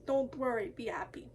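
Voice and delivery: a badly faked Russian accent; a hammed-up bad Russian accent; horrible Russian accent. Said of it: "with a horrible Russian accent".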